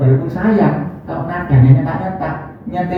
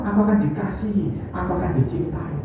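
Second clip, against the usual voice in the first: tender inner thought; 8 dB quieter than usual. Retold or imitated. Preacher voices trusting child.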